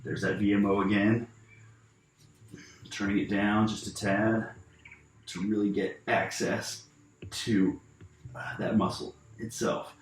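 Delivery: talking while holding breath. Real, not acted. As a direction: tight voice, breath held in pain. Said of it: "you can hear it in my voice, I'm holding my breath".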